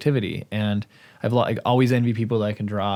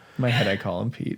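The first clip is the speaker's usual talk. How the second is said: sad-sounding voice. Admitting to calling someone Pete in private: sounding sad. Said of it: "You sounded so sad".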